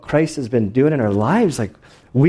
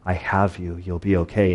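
lower, softer mild reassurance; reassuring; 6 semitones lower, 4 dB quieter than usual. Retold or imitated. God reassuring the soldier during the blast, low and gently reassuring. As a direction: quietly retell a comforting promise. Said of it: "I heard God's voice tell me".

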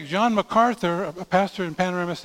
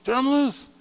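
rallying cry; 6 semitones higher than usual. Acted. Preacher urging on the youth group.

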